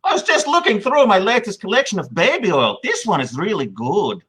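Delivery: lightly put-on European accent. European wrestler pitching his baby oil, put-on accent. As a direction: play the oddball with a wavering European accent. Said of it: "What happened to my accent".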